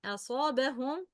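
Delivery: أصابهم starting on a thin, fronted "a" as in "cat"; light hamza. Shown as a demonstration. Teacher modelling hamza beside a heavy letter, light أ in أصابهم. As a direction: keep the opening أ of أصابهم light before the heavy ص. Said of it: "it's a, not a".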